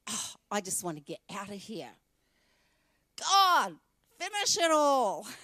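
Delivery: a half-joking plea to be taken; mock despairing cry. Believers joking to God about wanting out, mock wail. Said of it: "and we're like".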